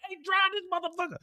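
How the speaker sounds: high, winded whisper; the hitman crushed and out of breath; breathless whisper. Acted. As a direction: gasp it out with no air. Hitman can barely breathe.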